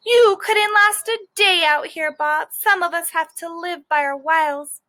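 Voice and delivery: lightly voiced wise-guy squirrel; cocky squirrel. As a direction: taunt the dog like a street-wise squirrel. Squirrel taunting dog through screen.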